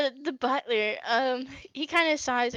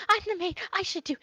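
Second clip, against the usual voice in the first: put-on higher, hurried young maid voice; the maid jumping in, eager to help; flustered maid; 6 semitones higher than usual. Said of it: "she goes".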